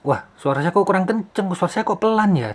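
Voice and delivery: high-pitched puzzled self-talk; puzzled mic user. Acted. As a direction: act out someone fretting over weak levels. Acts out worried user checking levels.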